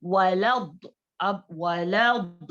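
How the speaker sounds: slow वलद with a heavy dwad; slow recitation; heavy dwad demo. Shown as a demonstration. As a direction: press वलद heavily and slowly. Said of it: "heavy letter है".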